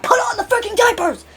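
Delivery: high, drawn-out acted yell; angry yelled order. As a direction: yell it as a furious henchman. Character forces him, acted out.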